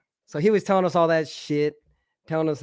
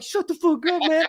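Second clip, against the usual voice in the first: high-pitched retold telling-off; exasperated scolding; 12 semitones higher than usual. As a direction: snap at a clowning friend, pitched high. Friend scolds him in retold scene.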